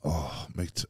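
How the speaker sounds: breathy whispered sigh of longing; wistful whisper. Real, not acted. Asked if he misses rugby, a whispered sigh. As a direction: let it out on a whisper, aching.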